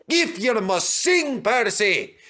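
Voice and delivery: slow, grumbling Douglas; grumbled. Acted. Douglas grumbling at Percy's singing. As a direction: grumble it, unimpressed. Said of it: "grumbled Douglas".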